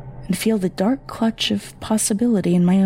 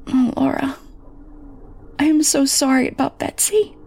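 pleading mother; 2 semitones higher than usual. Acted. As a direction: beg forgiveness as the mother.

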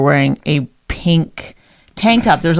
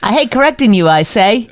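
higher, hammed-up old-timey mimicry; old-time character; 4 semitones higher, 3 dB louder than usual. Co-host parrots partner's correction back, old-time character. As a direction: parrot it back like someone from a bygone era. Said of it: "What era talks that way".

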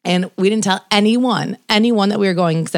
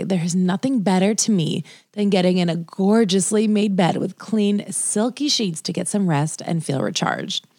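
measured, deliberate sponsor read; podcast ad read. Acted. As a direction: read the sponsor copy smoothly, stretching the key phrases. Reads a sponsor ad for bedding.

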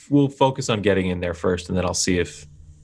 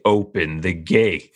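slow, deliberate menace, barely raised; intimidating; slower than usual. Acted. Leaning in close to the gate guard, intimidating. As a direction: spell out the order right in someone's face. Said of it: "so close to this fucking gate guard".

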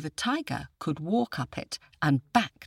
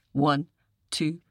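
full roar; slower than usual. Shown as a demonstration. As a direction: count steadily and let rip on rah. Listeners cued to roar.

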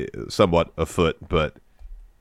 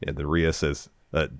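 ordinary talk

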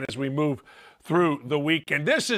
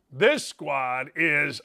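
drawn out slowly; 2 semitones lower, much slower than usual. Retold or imitated. Sets up contrast with damn good.

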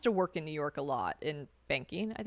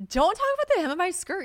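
high-pitched, louder indignant squeal; mock outrage; 13 semitones higher, 5 dB louder than usual. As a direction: scold in a hammed-up high voice. Retorting to a skirt critic.

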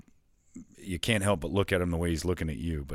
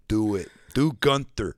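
hyped Gruden urging; Gruden insisting; 3 semitones higher, 6 dB louder, slower than usual. Retold or imitated. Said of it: "yells at him to do impressions".

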